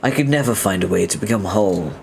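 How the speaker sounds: measured, formal confession; earnest game character. Acted. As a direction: voice a solemn confession to Rufio.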